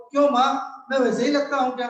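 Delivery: put-on a boy wondering if he looks like father; child Rahul. Rahul eagerly asks his mother if he resembles his father, high child voice.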